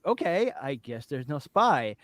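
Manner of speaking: low, slow, softly resigned; resigned acceptance. Retold or imitated. Viewer accepting there is no spy, mock resigned. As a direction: give in quietly, dragging it a little. Acting out viewers' let-down reaction.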